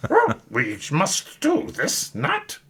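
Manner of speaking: slow, high, reversed-sentence wise master; Yoda voice. Retold or imitated. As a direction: croak it out like a tiny old Jedi. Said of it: "the Yoda in particular is a favorite".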